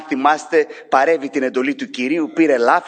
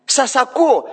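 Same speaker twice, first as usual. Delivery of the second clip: high, louder calling out "εδώ είμαι"; God calling out; 10 semitones higher, 4 dB louder than usual. Acted. God answering an unheeding people, high calling voice. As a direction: call out, I'm right here. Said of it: "Ο Κύριος λέει".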